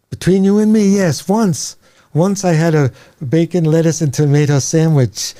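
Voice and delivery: high, hushed Yiddish rabbi confessing; lightly Yiddish rabbi, confiding; Yiddish accent. Acted.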